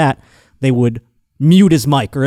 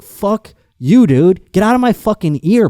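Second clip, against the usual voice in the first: higher-pitched mock outburst; acted annoyance; 7 semitones higher, 4 dB louder than usual. Batter looking up at the press box, mock-angry telling-off. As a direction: tell them off in an irritated, raised voice.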